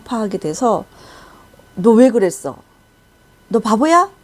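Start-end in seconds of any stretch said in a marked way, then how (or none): 1.7-4.1 loud, raised mock scolding; sharp retold reproach; pressing scolding. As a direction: retell a parent grilling a child, louder. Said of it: "막 그, 이렇게 다그치는 거예요".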